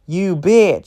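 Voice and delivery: hurt and cursing, pitch lifting; gasping in pain. A narrator's reading. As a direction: curse through a blow to the stomach. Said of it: "She gasps in pain".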